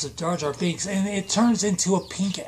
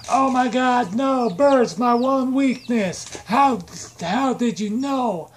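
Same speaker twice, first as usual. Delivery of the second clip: mock dramatic high voice, louder and slowing; pancake voice; 6 semitones higher, 4 dB louder, slower than usual. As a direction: ham it up as a doomed villain pancake. Stack of pancakes voiced talking.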